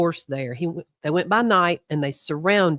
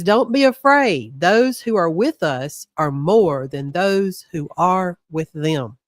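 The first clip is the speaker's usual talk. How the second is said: emphatic reading; slower than usual. Shown as a demonstration. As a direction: proclaim it boldly to the listeners. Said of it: "Let me read that again".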